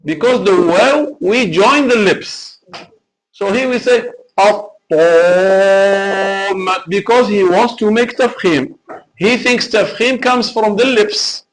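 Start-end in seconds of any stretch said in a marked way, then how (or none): 4.4-6.8 long held "الطَّامَّةُ" with a rounded OH; alif like waw. Shown as a demonstration. Teacher showing exaggerated tafkhim, alif like waw. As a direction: chant "الطَّامَّةُ" as "at-tom", joining the lips. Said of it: "alif is sounding like a waw".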